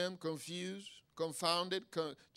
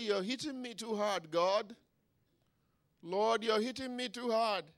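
raised-pitch mock protest; pleading complaint to God; 6 semitones higher than usual. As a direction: protest to God like a suffering man. Acting David's complaint to God.

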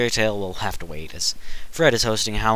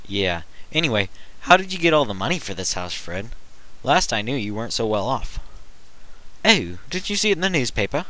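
fairy godmother voice. Acted. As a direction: gush like a fussy fairy godmother. Fred continues hosting.

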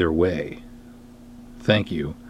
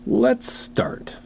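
whisper. Acted. Whispered aside before reading.

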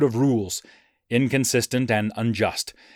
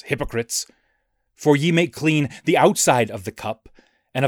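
mock biblical prophet. Reads Christ's woes in declamation.

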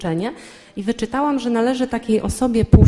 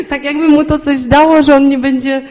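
laughing while telling it, louder and higher; 5 semitones higher, 8 dB louder than usual. Real, not acted. Wife laughing as she recalls her husband slamming the doors, louder and higher. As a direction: give in to the laugh mid-sentence.

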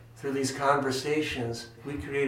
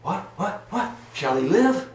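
a loosely acted Shakespeare line that rises to a loud last question; a hint of the deluded Malvolio; a mild stage reading of Malvolio; quoting Malvolio; 7 semitones higher, 4 dB louder than usual. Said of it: "this is the line".

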